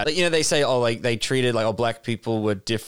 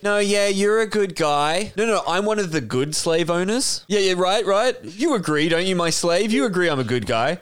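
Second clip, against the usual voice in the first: higher, pleading for approval; mock needy owner; 5 semitones higher than usual. Slave owner begging his slave for reassurance, mock needy. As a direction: fish for praise like a guilty master. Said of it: "now he has to be like".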